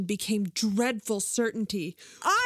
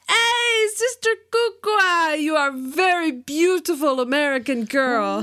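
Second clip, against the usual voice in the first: high excited hail easing down; exuberant suitor; 4 semitones higher than usual. A narrator's reading. Suitor flattering the American girl, exuberant.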